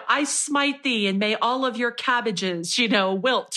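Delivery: lightly voiced smiting deity; mock biblical prophet. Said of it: "Ohm is smiting people and cursing them".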